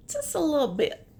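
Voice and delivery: quick teasing whisper. Real, not acted. Reading to a child, a quick joking whisper. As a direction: breathe it out as a joke aside. Understating spilled water joke.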